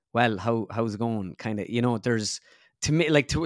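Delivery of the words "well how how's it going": flat accent of the Irish midlands. Shown as a demonstration. Comedian shows host his home accent, flat midlands Irish. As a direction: demonstrate a level, unremarkable midlands Irish lilt. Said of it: "it's very flat".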